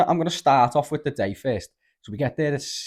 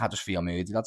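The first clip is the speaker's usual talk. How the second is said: softer, lower voice for an anxious friend; understated mock confession of feeling rough; imitating mild panic; 4 semitones lower, 6 dB quieter than usual. Struggling friend explains himself in the queue, subdued and uneasy. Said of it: "having, like, a bit of an anxiety attack".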